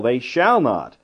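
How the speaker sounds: firm stress on "shall" in "they shall not". Shown as a demonstration. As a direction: hit "shall" not "will". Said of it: "That's emphatic, not merely will".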